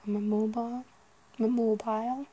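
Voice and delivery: mock odd mobile. Shown as a demonstration. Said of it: "Would anybody say that".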